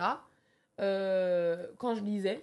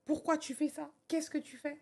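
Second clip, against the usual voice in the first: higher, pressing self-questions; questioning herself; 6 semitones higher than usual. Retold or imitated. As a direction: voice the doubts nagging inside her head. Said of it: "je me demandais". (elle se questionne, voix plus aiguë et insistante)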